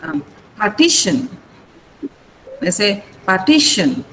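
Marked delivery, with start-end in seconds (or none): 0.6-1.3 partition said par-TI-tion; stress on middle syllable. Shown as a demonstration. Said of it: "The stress is on T". 3.2-4.0 partition said par-TI-tion; stress on middle syllable. Shown as a demonstration. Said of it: "The stress is on T".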